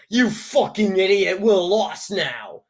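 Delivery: lightly voiced exasperated Zoe, slow on "lost now"; a hint of a fed-up friend snapping; blunt Zoe. Imagining Zoe honestly insulting you, mildly exasperated. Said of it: "if Zoe was like".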